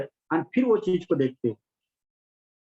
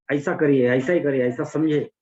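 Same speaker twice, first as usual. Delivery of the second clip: firm, louder push on "ऐसा करिए"; insistent stress; 2 semitones lower, 4 dB louder than usual. Real, not acted. Teacher stressing the method to meditation students, insistent stress on "ऐसा". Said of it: "इसके ऊपर मैं stress करता हूँ".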